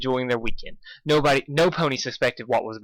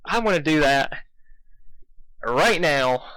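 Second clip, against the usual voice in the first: determined self-quote; 5 semitones higher than usual. Retold or imitated. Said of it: "And I'm just like".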